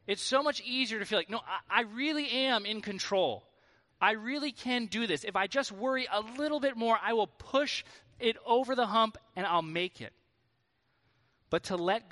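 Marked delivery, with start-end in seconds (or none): 1.3-10.1 higher-pitched, insistent self-persuasion; mock anxious insistence. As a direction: insist you have it all under control. Acts out anxious urge to control.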